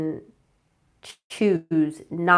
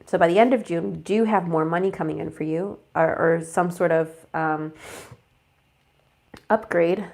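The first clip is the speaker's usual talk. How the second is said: blocked nose. Real, not acted. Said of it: "Sorry, I'm, like, congested".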